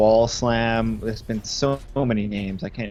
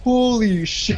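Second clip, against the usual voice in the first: high, laughing "holy shit"; amazed classmates, laughing through it; laughing shock; 11 semitones higher, 4 dB louder, much slower than usual. Retold or imitated. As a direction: break into a laugh mid-phrase. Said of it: "they're like".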